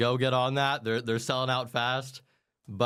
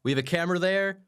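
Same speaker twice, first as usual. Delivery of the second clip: showman announcer; 6 semitones higher than usual. Pretend. Hypes guest like a showman.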